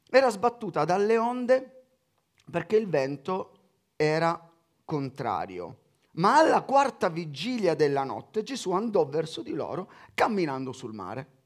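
measured Bible reading voice; scripture reading. Acted. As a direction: read the Gospel out to the congregation. Reads the Gospel aloud.

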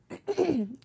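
clearing a sore throat; real throat clear after a cough. Real, not acted. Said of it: "Excuse me, guys".

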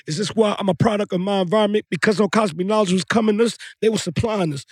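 steady rhythmic spoken word; poem recital. Shown as a demonstration. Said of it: "I'ma give you a piece of it".

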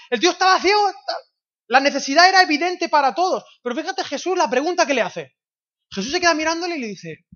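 high, loud preacher's emphasis; full-force preaching. Real, not acted. Preacher telling the church about the blind man, full force. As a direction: drive each phrase at the crowd.

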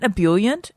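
"ebullient" said ih-BULL-yent; "ebullient" with BULL in the middle; correcting pronunciation. Retold or imitated. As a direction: stress the second syllable of "ebullient". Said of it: "and he's like".

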